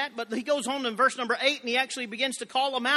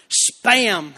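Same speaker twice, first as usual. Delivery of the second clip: laughing through the word Spam, louder; 7 dB louder than usual. Real, not acted. Preacher laughing at his own Spam joke. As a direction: blurt "Spam" while cracking up. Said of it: "y'all are already laughing".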